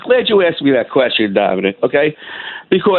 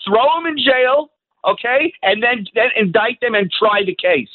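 worked-up, higher-pitched insistence; real anger; 5 semitones higher than usual. Real, not acted. Caller telling the radio host whom he would indict, angry. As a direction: lay down the charge with rising anger. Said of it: "the anger in your voice".

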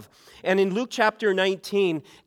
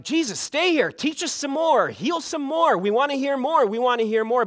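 higher, eager pleading crowd; lightly voiced crowd begging him to stay; 6 semitones higher than usual.

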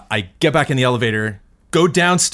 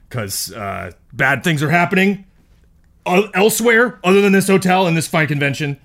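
hotel security officer. Acted. Player voices hotel security Consuela.

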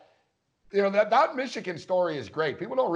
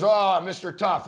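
mock taunt; 3 dB louder, slower than usual. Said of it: "He goes".

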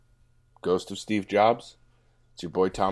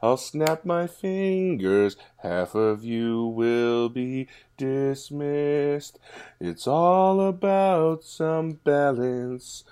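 much higher, very slow sing-song verse; Thanos impression; 7 semitones higher, much slower than usual. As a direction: recite it like a grand Thanos poem. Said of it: "I'm gonna do Thanos".

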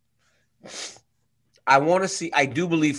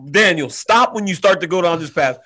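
loud, high comic dismay; louder mock horror at what you said; mock panic; 4 semitones higher, 5 dB louder than usual. Real, not acted. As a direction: groan at your own rant, hammed-up. Panicked self-reproach, laughing.

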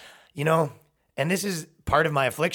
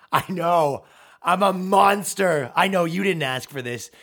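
slow, louder, hammed-up despair; mock self-pity; 3 semitones higher, 4 dB louder, slower than usual. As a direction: play the monster for sympathy. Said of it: "mock self-pity".

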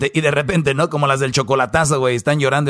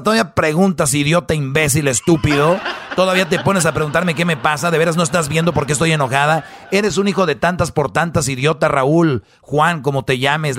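mock furious wife. Acts furious wife insulting.

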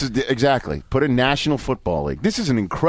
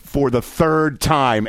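slow, emphatic reading of exclamation points; exclamatory; 2 semitones higher, much slower than usual. Acted. Host reading coach's emailed acceptance speech, exclamatory. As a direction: draw it out as a triumphant boast. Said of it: "exclamation points, four of them".

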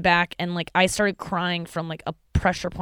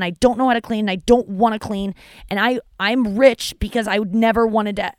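raised, higher whiny demands, half-joking; mock angry rant; 3 semitones higher, 5 dB louder than usual. Son ranting to mom about hiring a maid, mock angry. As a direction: huff at mom like a spoiled rich kid.

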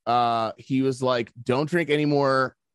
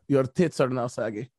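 imagined doctor. Retold or imitated. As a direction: play the examining doctor through amusement. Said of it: "if you just came in".

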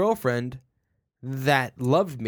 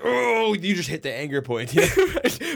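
laughing; 3 semitones higher, 4 dB louder, slower than usual. Real, not acted. Yoga anger point joke, laughing.

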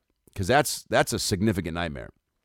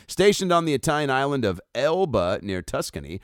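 lightly theatrical, higher-pitched article reading; article read-aloud; 6 semitones higher than usual. A narrator's reading. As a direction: read it out like a narrated feature.

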